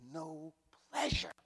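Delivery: slow whispered sorrow; God's sorrow breathed out slowly. Acted. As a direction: let the words fall to a slow whisper. Voicing God's grieving words.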